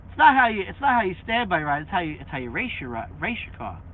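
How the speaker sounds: quick mock quote of William; imitating William. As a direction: rattle off his line fast, half-joking. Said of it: "He's like".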